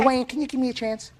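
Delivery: high, exasperated plea to the other side; real frustration at the interruptions. Real, not acted. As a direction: beg him to stop interrupting. The defendant keeps interrupting him.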